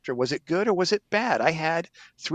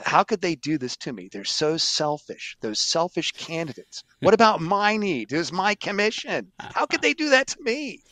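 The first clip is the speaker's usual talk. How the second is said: self-pitying whine; 3 semitones higher than usual. Retold or imitated. Retold self-pitying complaint.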